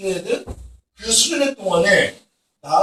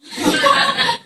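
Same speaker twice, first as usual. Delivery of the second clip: high laugh. Real, not acted. Speaker laughs at own story. (자기 이야기에 높게 터지는 웃음)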